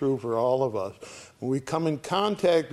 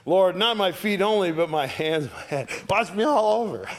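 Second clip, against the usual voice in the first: extreme enthusiasm; 5 semitones higher than usual. Acted. Preacher voices Peter begging Jesus, extreme enthusiasm. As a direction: throw yourself at it, more and more eager. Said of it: "See that extreme enthusiasm".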